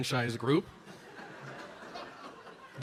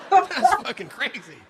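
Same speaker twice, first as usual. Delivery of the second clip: loud, higher burst of disbelief; shocked; 7 semitones higher, 9 dB louder than usual. Retold or imitated. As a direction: blurt it out, stunned. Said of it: "And you're like".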